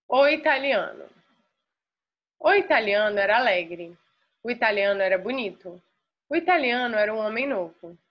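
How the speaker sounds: clear, measured reading with pauses, to show the class the rhythm; teacher's expressive read-aloud for the class to copy; model reading aloud. Shown as a demonstration. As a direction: read it as a model for students, minding intonation and stops. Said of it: "Prestar atenção na entonação, no ritmo, nas paradas".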